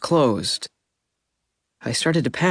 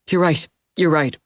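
sighing; 4 semitones higher than usual. A narrator's reading. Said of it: "she sighed".

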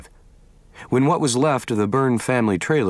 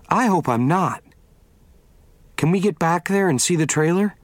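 Vicky, higher voice; 6 semitones higher than usual. Acted. Vicky asks Vince to take her to the trailer, higher and determined. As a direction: voice Vicky pressing to go see her home.

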